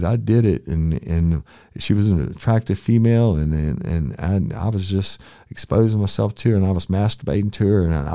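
high, tearful confession; crying man. Retold or imitated. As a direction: plead it through tears. Suspect's tearful confession retold.

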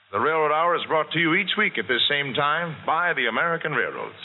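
brisk, polished radio host read; old radio announcer. Acted. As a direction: read the credits like a 1940s host. Host's sponsor and credits read.

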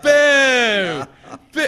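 high, loud heckler's boo; mock crowd booing. Crowd outside Lexington heckling him, long mock boos. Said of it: "they're like".

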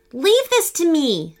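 determined. Acted. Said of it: "said Owen with determination".

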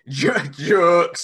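goof on the word "jokes"; silly pronunciation. Pretend. Wrestler clowning mid serious answer, silly "jokes".

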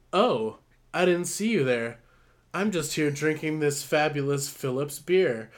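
hammed-up fake surprise at the camera; fake beer promo. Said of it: "like, fake as shit".

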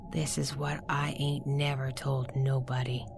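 hushed secretive whisper. Acted. Confiding secret to listener.

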